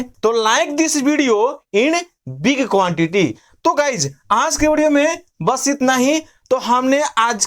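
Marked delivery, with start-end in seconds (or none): 0.4-3.3 slow, deliberate sentence; slow dictation. Shown as a demonstration. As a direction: say it slowly as a model line. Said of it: "तो इसको हम बोलेंगे". (धीरे-धीरे बोला गया वाक्य)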